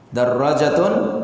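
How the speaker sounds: Darrajatun with a doubled, held rr and a long ja; with shadda. Shown as a demonstration. Teacher stresses the doubled r in Darrajatun for students. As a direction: Darrajatun said slowly, leaning on the double r. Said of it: "kalau tidak ada tasdid dan alifnya".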